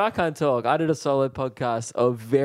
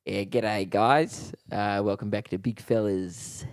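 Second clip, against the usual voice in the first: mock teen podcaster; 3 semitones lower, slower than usual. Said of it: "Can I do an impression?".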